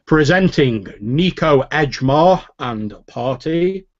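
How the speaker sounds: slow, grand announcement of arriving guests; manservant announcing guests. Acted. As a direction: announce the party slowly to the hall. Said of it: "and the manservant says".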